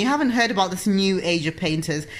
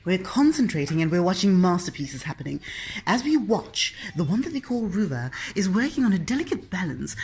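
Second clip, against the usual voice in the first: gallery commentator. Pretend. Mock art commentary on child painting.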